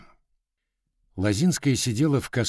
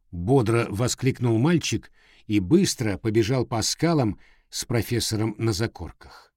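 story read aloud; 3 semitones higher than usual. Acted.

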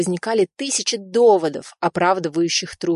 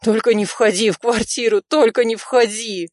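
desperate pleading; 5 semitones higher than usual. A narrator's reading. Rizo silently begging Nadya not to enter, desperate. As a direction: beg her not to come in. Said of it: "молил её Ризо".

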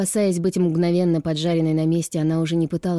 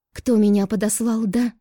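higher, louder angry cry; shouted; 5 semitones higher, 4 dB louder than usual. A narrator's reading. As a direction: fling the question at him. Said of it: "выкрикнула она".

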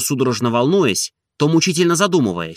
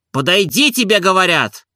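menacing; 6 semitones higher than usual. A narrator's reading. Oblomov losing patience with Zakhar, menacing. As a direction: lay down the order, threatening. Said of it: "грозно произнёс Обломов".

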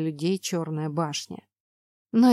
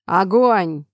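loud shouted order; shouted command; 8 dB louder than usual. Acted. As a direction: yell the order to fire. Order to shoot arrows. (громкий крик-команда)

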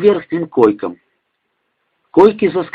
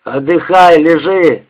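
yelling; 3 semitones higher than usual. Acted. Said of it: "заорал Женька".

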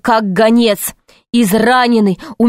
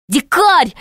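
calling out; 7 semitones higher than usual. A narrator's reading. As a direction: call out his name on a high, falling pitch. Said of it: "закричал он". (окликает криком, высоко)

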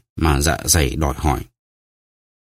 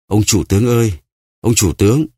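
a prisoner's higher, pleading call through the door; 3 semitones higher than usual. Acted. Prisoner on the floor calls the bandit chief, pleading cry. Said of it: "nằm phù phục dưới đất và kêu lên".

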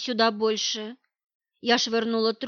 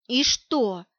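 indignant. Acted. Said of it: "Возмутилась я".

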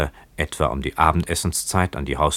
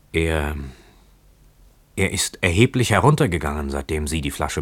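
stammering. Acted. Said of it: "versetzte stammelnd der junge Mann".

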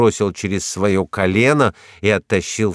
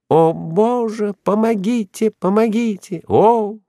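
terrified death cry; 13 semitones higher than usual. A narrator's reading. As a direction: wail for help in mortal fear. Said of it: "точно предсмертный крик". (страшный, предсмертный крик)

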